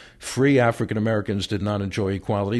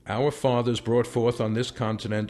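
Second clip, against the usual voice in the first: reading aloud plainly. Shown as a demonstration. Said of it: "Do it like you're talking".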